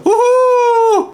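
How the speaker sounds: long high-pitched "woo-hoo"; drawn-out excited squeal; gleeful whoop. Real, not acted. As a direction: whoop with delight, held on one high note. Thrilled steering the arrows.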